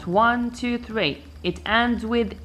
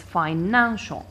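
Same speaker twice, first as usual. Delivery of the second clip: financial stressed on the middle syllable, "nan"; stress on second-last syllable. Shown as a demonstration. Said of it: "I stress the second syllable".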